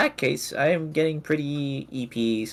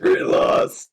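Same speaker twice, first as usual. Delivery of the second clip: whispered; 5 dB louder than usual. Acted. Echoes the character's name.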